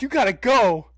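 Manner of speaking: urgent retold plea. Urgent plea while fleeing.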